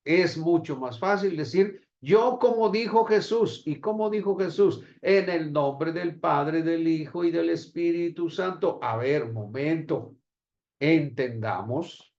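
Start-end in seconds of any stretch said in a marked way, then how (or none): 2.0-8.8 higher, emphatic recitation of a formula; mock reciting. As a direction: mimic someone proudly parroting scripture. Mimics people reciting the formula.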